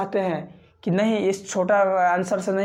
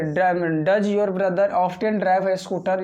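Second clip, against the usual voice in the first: dragged out very slowly, word by word; extra slow teacher read; much slower than usual. Shown as a demonstration. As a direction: stretch every word for learners. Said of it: "तो यदि आप देखिए". (बहुत धीमे, एक-एक शब्द खींचकर)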